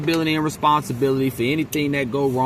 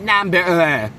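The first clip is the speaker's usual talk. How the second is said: "Number" pitched up in an exaggerated Caucasian accent; mock Caucasian accent; 3 semitones higher, 4 dB louder than usual. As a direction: stretch "Number" with a quivering Caucasian-accent ending. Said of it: "her Caucasian accent where she was like".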